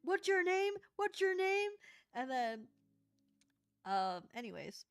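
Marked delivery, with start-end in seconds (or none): 0.0-1.7 stern demand. Retold or imitated. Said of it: "she doubled down".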